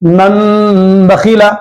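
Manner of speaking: teacher drags out "من بخیلا" very slowly, nun sounded as meem; very slow demo with nun turned to meem. Shown as a demonstration. Teacher drills students very slowly, "من بخیلا" said with meem. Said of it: "نون کی آواز نہیں نکال کے میم کی آواز نکالنا ہے".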